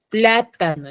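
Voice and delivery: Plátano with PLA punched; stress on first syllable. Shown as a demonstration. Teacher showing students where Plátano carries its stress, first-syllable emphasis. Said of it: "entonces pla es la antepenúltima".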